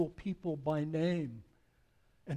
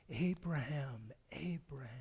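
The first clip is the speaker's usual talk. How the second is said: tender call; 4 dB quieter than usual. Acted. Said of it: "so filled with love".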